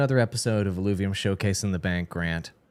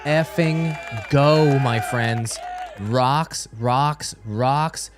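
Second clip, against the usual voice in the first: raised, drawn-out hype shouting; mock hype; 5 semitones higher, 3 dB louder, much slower than usual. Host cheering on a showcase of rocks, mock hype. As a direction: cheer like a hype man working a crowd.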